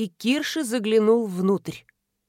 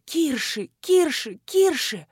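rising desperate calls; 5 semitones higher, slower than usual. Acted. Girl calling his name desperately.

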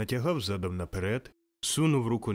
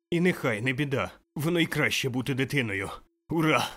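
higher, eager, bursting joy; childlike excitement; 3 semitones higher than usual. Acted. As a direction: marvel like a newborn child. Scrooge giddy like a newborn. (дитяча радість)

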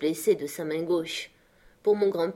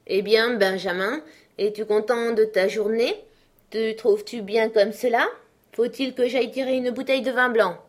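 sarcastic scolding; 5 semitones higher, 3 dB louder than usual. Acted. Angry sister confronts Benjamin.

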